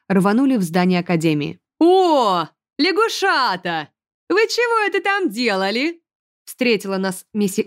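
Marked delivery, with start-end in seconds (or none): 1.8-6.0 high, drawn-out teasing auntie; lightly voiced old commandant. A narrator's reading. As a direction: tease the froglets like a sly old keeper. The commandant's character voice. (игривая старая комендантша, высоко и протяжно)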